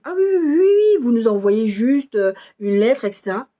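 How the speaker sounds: sudden high, eager agreement, slowed on the second line; eager yes. Retold or imitated. The advisor finally agreeing on the phone, high and eager. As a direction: gush out a delighted yes.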